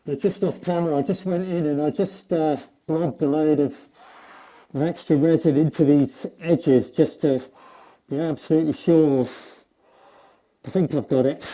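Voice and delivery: muffled behind a respirator; through a respirator. Real, not acted. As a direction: speak through a respirator mask. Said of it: "I've got my, uh, respirator on".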